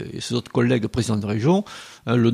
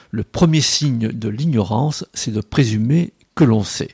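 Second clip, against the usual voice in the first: solemn declamation. Acted. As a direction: pronounce it like a grave maxim. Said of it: "déclamer".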